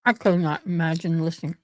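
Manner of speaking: talking while crunching; chewing a crunchy snack; crunching chips. Real, not acted. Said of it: "I'm crunching".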